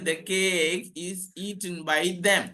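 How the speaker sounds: slow, spaced-out example sentence; measured classroom example delivery; slow model sentence. Shown as a demonstration. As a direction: give each word room for learners. Teacher presents example sentence slowly.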